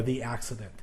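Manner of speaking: "the accident", with an unemphatic thee; long E in "the", softly said. Shown as a demonstration. Teacher adding a vowel example, "the" as thee. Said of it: "we're not gonna emphasize it".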